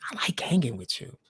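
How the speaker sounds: hushed whispered aside; soft intimate whisper. Real, not acted. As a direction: whisper it like a secret to a friend. Tender aside to viewers.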